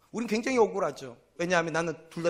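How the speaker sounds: usual speaking voice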